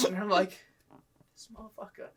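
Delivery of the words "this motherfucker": hushed, whispery aside; acted-out seething whisper; muttered grudge. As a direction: swear under your breath, almost voiceless. Silent grudge behind the departing coworker.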